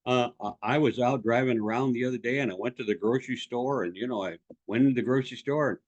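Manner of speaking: low, rambling mock anecdote; boring storyteller. Coach imitating people who just tell stories, boring ramble. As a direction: meander on with fillers, imitating a dull storyteller. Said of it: "people just tell a story".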